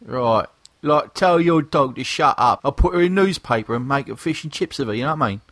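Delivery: hammed-up British geezer greeting; fake British accent. Podcast host introducing the lads, in a fake British accent. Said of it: "enough of the fake British accents".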